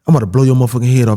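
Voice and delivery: retold robber's threat. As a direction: rattle off an impatient threat, re-enacted. Robber's threat being re-enacted.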